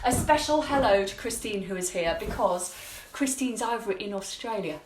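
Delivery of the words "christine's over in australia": jokey, badly faked Australian twang; bad Australian accent. Shown as a demonstration. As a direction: put on your worst Australian accent. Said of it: "That's my worst Australian accent".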